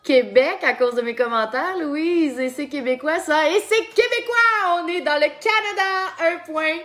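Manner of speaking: rising to a high, loud rallying cry; building excited cheer. Real, not acted. Cheers for her chosen answer, building.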